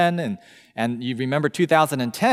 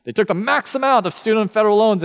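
higher, proud mock brag; a hammed-up boast; bragging; 7 semitones higher, faster than usual. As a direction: show off the loan total. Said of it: "they're boasting".

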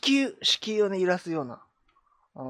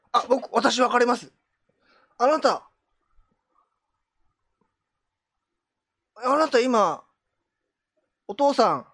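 mysterious fortune teller; slower than usual. Pretend. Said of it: "重い雰囲気でさ".

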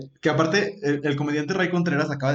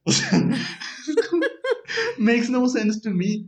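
slow, high, laughing disbelief; 9 semitones higher, slower than usual. Real, not acted. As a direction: laugh it out slowly. Ríe incrédula. (riendo incrédula)

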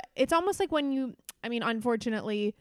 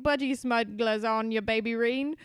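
put-on Australian accent. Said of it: "An Australian word. They're like".

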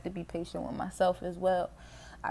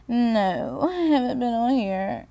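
giggly, higher mock protest; playful higher denial through a laugh; 5 semitones higher, 5 dB louder, slower than usual. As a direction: laugh it off as you deny. Mock self-defense, laughing.

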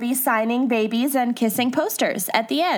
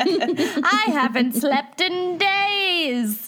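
laughing mock despair; 5 semitones higher, much slower than usual.

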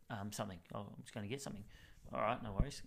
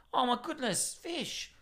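high-pitched, hammed-up astonishment; imitated amazement; 12 semitones higher, 4 dB louder, slower than usual. Customer walks in and spots the fish, mock amazed and high. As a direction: exclaim it high, drawing attention to the find. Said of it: "like this".

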